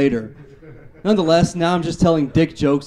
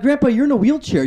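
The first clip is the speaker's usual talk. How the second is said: retort to grandpa; 9 semitones higher, 3 dB louder than usual. Retold or imitated. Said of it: "I'm like".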